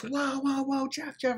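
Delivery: high, urgent mock intervention; alarmed calling out. Teller grabbing Jeff to stop him, alarmed retold call. Teller restrains a raging friend.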